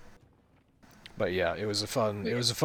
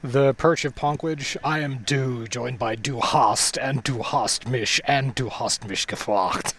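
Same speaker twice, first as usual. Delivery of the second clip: announcer voice; 4 semitones higher, 7 dB louder, slower than usual. Acted. Announcing hosts, band parody.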